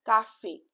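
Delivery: cafe joined up as "ka-fay"; cafe with acute accent. Shown as a demonstration. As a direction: end cafe on a sounded é. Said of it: "so C A is ka".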